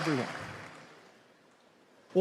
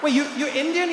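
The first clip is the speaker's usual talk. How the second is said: confused surprise; 7 semitones higher than usual. Retold or imitated. Trevor confused by waiter.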